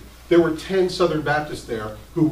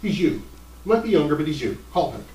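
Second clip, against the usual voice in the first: wife urging. Retold or imitated. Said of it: "shoved my letter in his face and said".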